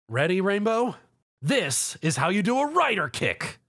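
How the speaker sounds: high, eager call; rally your partner before the kick; eager announcement. A narrator's reading. Zio calls to Rainbow before the kick, high and eager. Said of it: "Zio announced".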